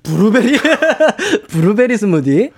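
브루베리 스무디 with a light rise; Seoul-style attempt. Shown as a demonstration. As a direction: say 브루베리 스무디 gently with an upturn. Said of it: "그냥 블루베리 스무디죠".

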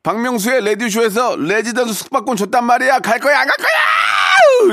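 hammed-up tirade building to a screech; scolding demo. Shown as a demonstration. Host models scolding husband, escalating comic shriek. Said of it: "이렇게 하세요".

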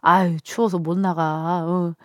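lightly imitated Chungcheong accent, slowed; easygoing Chungcheong accent, unhurried; Chungcheong drawl. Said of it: "약간 요런 충청도 느낌 아닐까요?".

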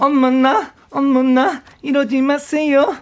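high, slow nasal trot line. Shown as a demonstration. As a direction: sing it through the nose, drawn out. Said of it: "이렇게 되는 거거든". (콧소리로 느리게 꺾어서)

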